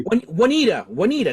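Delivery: Juanita begun with a w sound, "wah-NEE-da"; settled pronunciation. Shown as a demonstration. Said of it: "that's how you say it".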